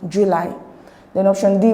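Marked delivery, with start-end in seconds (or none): 0.1-0.5 July with weight on the second syllable; stress on LY. Shown as a demonstration. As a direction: keep Ju light and stress the ly in July. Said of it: "It's on lie and not on Ju".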